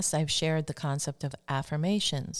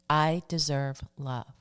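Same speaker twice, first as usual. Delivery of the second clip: slow, deliberate affirmation; measured self-affirmation for listeners to copy. Shown as a demonstration. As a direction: state it slowly, word by word. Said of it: "share a few positive affirmations".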